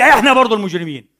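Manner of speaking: normal talking voice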